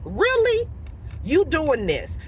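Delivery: high-pitched incredulous "really"; disbelieving. Retold or imitated. To the coworker going off on her, disbelieving. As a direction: react in mock disbelief.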